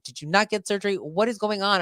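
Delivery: mild mock bewilderment; retold confusion. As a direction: fire off baffled questions, lightly acted. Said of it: "I'm so confused".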